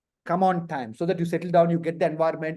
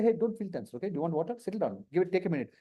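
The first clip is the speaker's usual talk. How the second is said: soft, mildly soothing aside; softly reassuring; reassuring interviewer; 2 semitones lower, 8 dB quieter, faster than usual. Acted. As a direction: gently settle a tense candidate. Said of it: "we give respect. When you're tense, I say".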